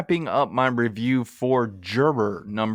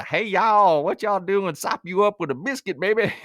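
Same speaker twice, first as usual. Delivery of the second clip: put-on thick Southern accent; 8 semitones higher than usual. Podcast host mocking an actress's overdone accent, broad Southern. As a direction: lay the Southern on absurdly thick. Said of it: "her Southern accent is all over the place".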